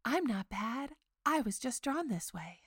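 sultry Jessica Rabbit voice. Retold or imitated. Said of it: "who says in her very sultry voice".

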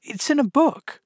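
high-pitched, mild explanation; very gently. A narrator's reading. Alice explains how she knows, very gently. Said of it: "very gently".

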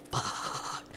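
breathy whispered swear; whispered curse. Retold or imitated. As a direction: mouth a shocked curse. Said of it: "and I'm like".

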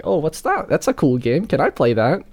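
put-on high, bright little-kid excitement; eager kid. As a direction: gush like a young boy begging. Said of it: "I've kind of been like".

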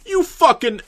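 high-pitched mock yell; imitated yell. Imitating someone yelling after the feed went black, high mock yell. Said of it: "someone just yelled".

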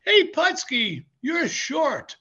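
high, loud imitated jeer; mock-heckling yell; heckler's taunt. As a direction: call out the insult like a fan in the crowd. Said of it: "Then the guy says".

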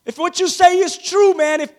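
lightly acted crowd, stopping the speaker with mild excitement; excited townspeople. Townspeople answer Nehemiah's testimony, lightly acted excitement. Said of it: "So the people began to say".

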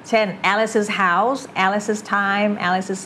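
normal talking voice

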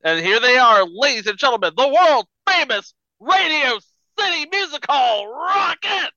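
ringmaster. Pretend. Announcing the Rockets.

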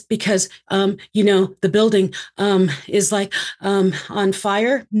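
halting, fillers everywhere, ending up like a question; unsure hedging delivery of urgent news; hesitant, unsure delivery. Shown as a demonstration. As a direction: mumble through it as if you doubt yourself. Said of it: "saying it like this".

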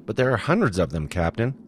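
can't believe the numbers; a touch of disbelief in a young crewman. A narrator's reading. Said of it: "the crewman said in disbelief".

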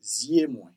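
zye moi, stress on zye, falling; Creole for my eyes. Shown as a demonstration. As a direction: say zye moi clearly, zye first. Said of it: "you say".

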